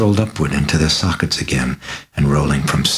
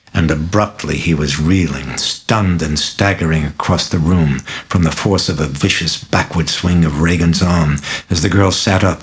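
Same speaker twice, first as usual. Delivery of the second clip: ordinary delivery, nothing marked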